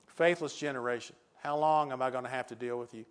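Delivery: restrained, solemn rebuke; understated solemn delivery; Jesus, calm and solemn. Acted. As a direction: say it calmly, as a weary-worded reproach. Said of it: "in a calm, solemn voice".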